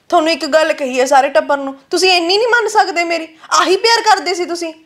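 hurt, indignant complaint rising in pitch. Acted. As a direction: reproach your family for not listening. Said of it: "ਜੇ ਬੀਬੀ ਨੇ ਤੇਰੀ ਆਵਾਜ਼ ਸੁਣ ਲਈ".

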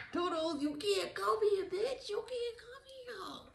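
high, soft put-on voice; Spirit's dismissal. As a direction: wave them off in a light high sing-song. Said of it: "Spirit say".

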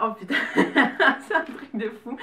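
swear, then burst out laughing; real disbelieving laugh breaking through the words; stunned laughter. Real, not acted. Gift opener unwraps a longed-for palette, laughing in disbelief.

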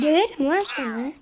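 loud, playful threat; a hammed-up threat to the trader; mock threat.

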